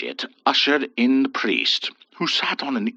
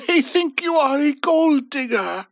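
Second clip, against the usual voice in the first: cooing; 14 semitones higher than usual. A narrator's reading. Husband cooing comfort to his wife. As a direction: lightly coo it, tender. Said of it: "her husband cooed".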